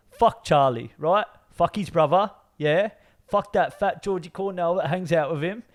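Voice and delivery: put-on cocky British tough-guy accent, tagging each threat; put-on British gangster accent. Player quoting a Mafia movie for mate to guess, London gangster accent. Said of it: "that's a really good accent".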